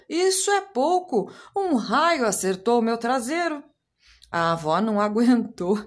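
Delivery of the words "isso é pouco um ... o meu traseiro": high indignant yelp from grandpa; shout. Acted. Grandfather shouting his complaint to the family, high yelp. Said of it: "O avô gritou".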